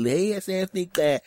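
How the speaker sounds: a hint of a gushing greeter; friend's greeting. Mimics friend greeting him.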